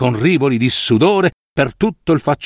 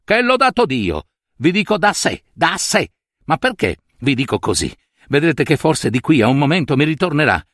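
furious rant; 3 semitones higher than usual. Acted. Bobbio furious at the friend.

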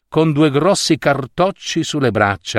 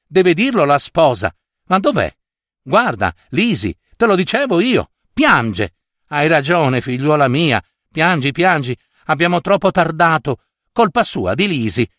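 higher-pitched, bustling sister of the groom; impetuous sister; 3 semitones higher than usual. Acted. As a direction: take over the room as the impetuous sister. (sorella impetuosa e invadente)

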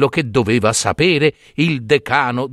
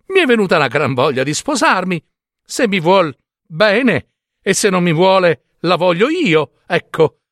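fast, high and eager; eager simpleton; 6 semitones higher than usual. Acted. Giambabbeo begging his father for a horse, eager and fast. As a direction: rattle it off, keen to wed.

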